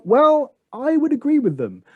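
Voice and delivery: high, laughing sarcasm; mock sarcastic agreement. Scoffing at teachers who hide their accent, high and laughing. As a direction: tease them with a high, amused agree. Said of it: "And I'm like".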